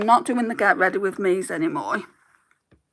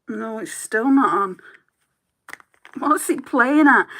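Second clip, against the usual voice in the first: struggling with a lid; 2 semitones higher, 3 dB louder than usual. Real, not acted. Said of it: "Now I can't get this lid back on".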